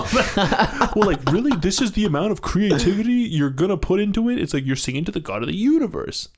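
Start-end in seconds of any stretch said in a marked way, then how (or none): 0.0-4.4 high, laughing disbelief; laughing mock outrage. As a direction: laugh through the indignation.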